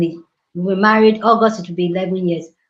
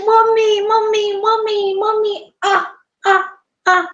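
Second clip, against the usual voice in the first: much higher, sing-song mommy; sweet repeated calling; 13 semitones higher than usual. Retold or imitated. Daughter-in-law greets her mother-in-law with a high sing-song mommy. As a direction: call out to her lovingly, high and bright.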